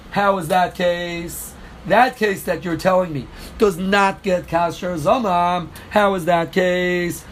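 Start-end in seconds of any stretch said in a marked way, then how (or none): 0.1-1.5 slow, deliberate translation. Shown as a demonstration. Teacher translating the Mishnah word by word, slowly. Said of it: "Keitzad Ein Mazeh means". 5.9-7.2 slow, spelled-out question. Shown as a demonstration. Teacher marking the question for students, slowly. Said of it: "Question mark".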